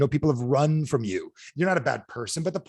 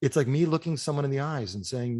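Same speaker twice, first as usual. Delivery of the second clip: ordinary talk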